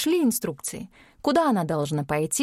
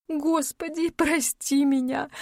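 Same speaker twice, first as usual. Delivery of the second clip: high, slow tearful plea to God; sobbing prayer; 7 semitones higher, slower than usual. A narrator's reading. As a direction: weep out the prayer. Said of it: "рыдала Ирина".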